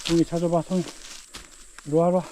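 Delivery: high coaxing pet voice; talking to a dog. Real, not acted. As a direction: urge the dog on brightly. Training dog to find mushrooms.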